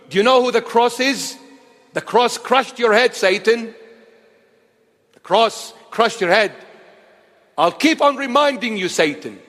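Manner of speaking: fierce rebuke hurled at the devil; defiant preacher's rebuke; rebuking Satan. Real, not acted. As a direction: scold the devil to his face.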